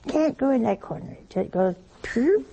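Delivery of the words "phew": short rising "phew" puff; imitated dust puff. Shown as a demonstration. Showing dust missing the corner, imitated puff. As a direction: puff out a little whoosh that flicks upward.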